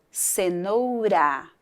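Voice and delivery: CENOURA with a soft tapped R in the last syllable; weak R. Shown as a demonstration. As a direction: sound out cenoura, lightly tapping the R. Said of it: "esse R tem um som mais fraco".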